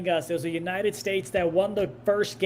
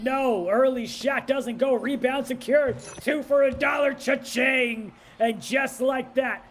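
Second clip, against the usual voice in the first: slightly higher, punchy game call; excited play-by-play; 5 semitones higher than usual. Real, not acted. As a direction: ride the play up to a drawn-out catchphrase.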